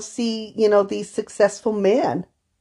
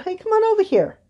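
friendly call; 13 semitones higher than usual. Retold or imitated. Calling the little boy over.

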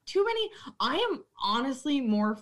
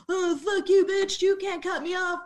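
mock angry customer; 7 semitones higher than usual. Bartender imitating a customer cut off, mock angry. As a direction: spit it out like an offended drunk.

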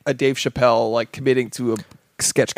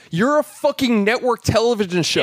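higher, heated fed-up tirade; real rant; 4 semitones higher than usual. Real, not acted. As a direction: vent your irritation full steam. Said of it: "I am so mad".

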